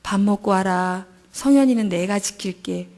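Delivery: tender slow fatherly reassurance. Retold or imitated. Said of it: "다정다감한 친정 아버지 같은 목소리".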